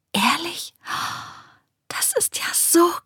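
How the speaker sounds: high, whispery amazement; breathed in awe. A narrator's reading. Girl learns all animals talk, awed breathy whisper. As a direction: breathe it out, wonderstruck. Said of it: "hauchte Esmina".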